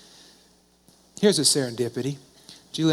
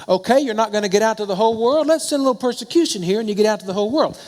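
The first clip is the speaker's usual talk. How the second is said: higher and louder, proclaiming it; booming preacher voice; 7 semitones higher, 6 dB louder, faster than usual. Acted. Preacher telling the congregation how persecution spreads faith, booming and high. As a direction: thunder out the point like a revival preacher. Preacher voicing God's plan.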